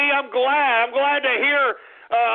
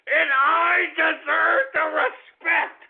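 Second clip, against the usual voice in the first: ranting with a cry. Acted. Host ranting, breaking into laugh-cry.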